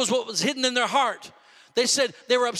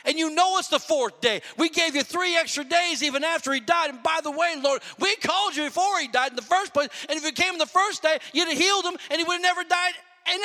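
higher-pitched, acted-out family grievance; disappointed, offended complaint; 6 semitones higher than usual. Preacher voices sisters scolding Jesus for arriving late, offended. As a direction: pile up the reproaches like a slighted sister. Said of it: "they were very disappointed".

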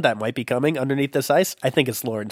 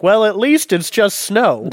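Liam Neeson; 7 semitones higher, 5 dB louder, slower than usual. Acted. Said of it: "Liam Neeson says something to the effect of".

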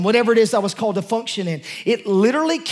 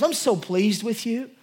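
gentle voice of God; 4 dB quieter than usual. Retold or imitated. God speaking to him, quoted.

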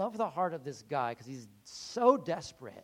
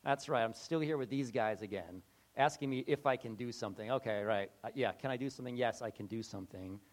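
irritated Jesus; 4 semitones lower than usual. Retold or imitated. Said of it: "He's irritated, like".

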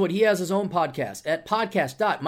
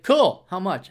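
imitating Jeff; 4 semitones higher, 8 dB louder, slower than usual. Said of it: "He's like".

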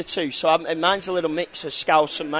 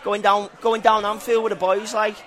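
Scouse accent; 3 semitones higher than usual. Shown as a demonstration. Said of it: "which is Liverpool".

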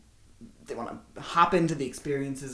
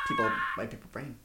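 zombie groan; 4 dB quieter than usual. Retold or imitated.

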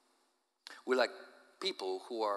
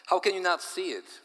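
high, loud exasperated question; exasperated outburst; 7 semitones higher, 6 dB louder than usual. Acted. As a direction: throw up your hands and cry it out. Husband bewildered, exasperated question.

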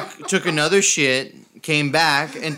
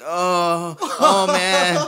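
higher, drawn-out pained groan; hammed-up bellyache moan; painful moaning; 3 semitones higher, much slower than usual. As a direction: moan it through cramps. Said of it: "my painful moans".

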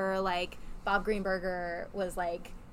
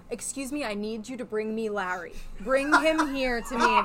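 imperious demand; 2 semitones higher, 5 dB louder than usual. Retold or imitated. Retelling how a guest summoned a colleague, imperiously. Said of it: "But he did it in that accent".

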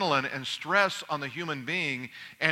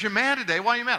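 higher-pitched imitation of a questioning wife; puzzled wife; 6 semitones higher, faster than usual. Wife questioning her husband's unexplained bad mood, puzzled.

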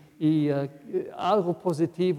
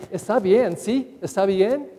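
needy asking; 3 semitones higher than usual. Retold or imitated.

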